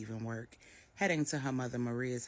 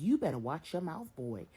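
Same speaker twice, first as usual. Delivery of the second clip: louder, stern warning; scolding mother; 6 semitones higher, 5 dB louder than usual. A narrator's reading. Miss Brenda scolds Marcus for disrespecting his mother-in-law. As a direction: put him in his place.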